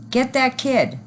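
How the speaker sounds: high furious dad; angry shout. A narrator's reading. Angry dad sending parents after the kid, high shout. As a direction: order the chase. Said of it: "one dad shouted".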